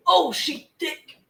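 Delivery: high, slow sassy praise; sassy admiration. Real, not acted. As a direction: admire the cookies with sass.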